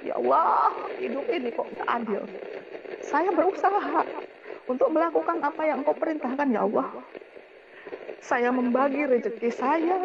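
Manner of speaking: a touch of angry pleading to God; retold angry complaint. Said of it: "tak bilang gitu".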